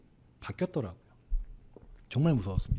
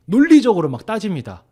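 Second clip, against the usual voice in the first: louder and higher, pressing the point; 1 emphatic; 7 semitones higher, 10 dB louder than usual. Real, not acted. Host stressing how customers argue, pressing hard. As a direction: lean in hard on the telling. Emphatic telling about complaints.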